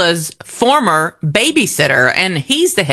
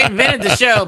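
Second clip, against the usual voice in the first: tag; 2 semitones higher than usual. Retold or imitated. Joking as show's creator, laughing along.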